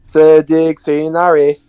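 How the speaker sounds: "Se dig sinari" slowly sounded out; careful, slow go at "Se dig sinari"; attempted Norwegian. Shown as a demonstration. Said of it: "Now say the Norwegian version".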